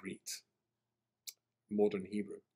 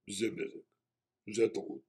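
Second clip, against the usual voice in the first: slow, deliberate recorded operator voice; automated phone message; much slower than usual. Retold or imitated. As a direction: read it like a machine announcement. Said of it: "suddenly a voice says".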